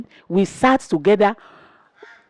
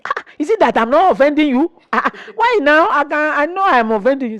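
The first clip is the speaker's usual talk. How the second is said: quick, rushed teasing; fast playful challenge; 5 semitones higher, faster than usual. Retold or imitated. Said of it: "at times I say".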